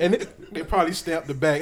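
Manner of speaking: talking with the hiccups; hiccuping from laughing so hard. Real, not acted. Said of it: "I done got the hiccups from laughing".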